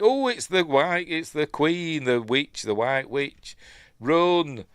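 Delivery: high, loud mock alarm building to "Run!"; a bit of hammed-up Australian-free Narnia panic. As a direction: play the heroes' sudden fright, hammed up. Voicing the characters' panic.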